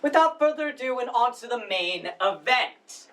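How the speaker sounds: formal, halting welcome speech; lightly pompous drama society director addressing the house; Chris. Acted. Drama society head welcomes audience to the spring production, formal speech. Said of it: "that was Chris's monologue from the play".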